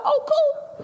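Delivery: squeaky fake-casual reply; a teen relieved to miss her heat, falsely bright; mock-cheerful. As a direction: feign you don't care.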